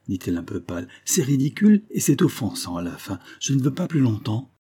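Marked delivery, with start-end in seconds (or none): 1.0-4.5 high-pitched, fed-up objection; offended protest. Acted. Wife refusing her husband's jealous watch, offended. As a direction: push back, pitch raised in offence.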